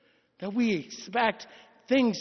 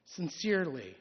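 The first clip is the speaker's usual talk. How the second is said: cracking tearful heartbreak; 3 semitones lower than usual. Acted. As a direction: let the voice sink with grief. Reading dead child's letter.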